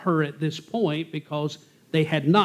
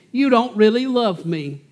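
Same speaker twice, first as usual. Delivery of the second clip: higher, pleading mock tears, a touch of a whine; fake crying plea; 6 semitones higher than usual. Samson's wife whining to him with fake tears, higher mock crying. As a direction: paint crocodile tears over the complaint. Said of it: "she's crying, the, the phony tears are coming down".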